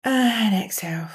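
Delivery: slow, breathy whisper; slow whispered exhale. Shown as a demonstration. Coach guiding the breath, slow whispered cue. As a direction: let the word go out with the breath. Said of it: "you see when I'm doing it, I'm speaking more slowly".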